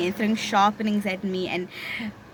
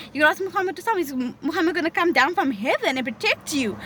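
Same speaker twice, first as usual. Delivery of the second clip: quick, higher, sneering schoolgirl taunt; mocking taunt; 3 semitones higher, much faster than usual. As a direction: jeer at her like a playground bully. Bully taunting her religion.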